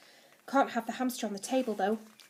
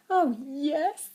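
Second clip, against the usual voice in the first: higher, louder burst of delight; 4 semitones higher, 7 dB louder than usual. A narrator's reading. Zeus is asked about his sacrifice, delighted. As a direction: pipe up with sudden glee. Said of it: "all smiles again".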